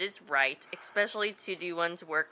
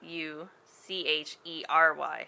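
spelling it out. Shown as a demonstration. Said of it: "It's D E B A".

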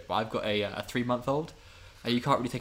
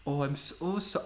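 put-on Welsh accent; 2 semitones higher, 4 dB quieter than usual. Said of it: "he had a very thick Welsh accent".

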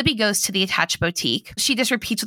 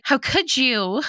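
higher-pitched pretend hurt; mock betrayal; 4 semitones higher than usual. To the man who faked his accent, mock-betrayed. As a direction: lightly ham up the heartbreak.

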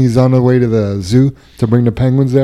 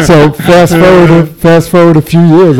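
laughing; 5 semitones higher, slower than usual. Real, not acted. Laughing after own joke.

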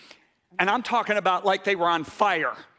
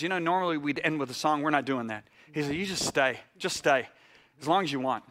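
lower, understated retold leader; calm reassurance; 5 semitones lower, 4 dB quieter than usual. National leader telling the preacher to stay, calm. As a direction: quietly give permission to stay. Retells wise leader's gentle permission.

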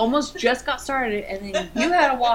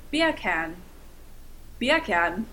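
R-less British "beer can"; put-on British pronunciation; British accent; 2 semitones lower, much slower than usual. Shown as a demonstration. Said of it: "I'm British".

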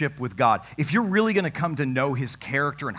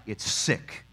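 hushed; 5 semitones lower, 6 dB quieter than usual. Real, not acted.

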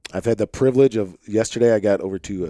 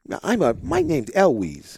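much higher, imitating a small girl with a twang; little kid voice with twang; 10 semitones higher than usual. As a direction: play his daughter introducing herself in a little kid voice. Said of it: "like, little kid voices".

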